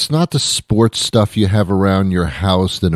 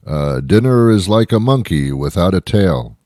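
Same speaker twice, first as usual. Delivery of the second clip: mock sage voice. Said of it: "What the fuck are you talking about?".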